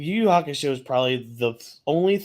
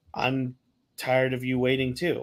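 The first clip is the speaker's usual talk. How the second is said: understated, barely-there, quiet, soft-spoken; 3 dB quieter than usual. Retelling the quiet reply to the screaming: imitating Yusuke speaking quietly. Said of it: "quietly you hear Yusuke being like".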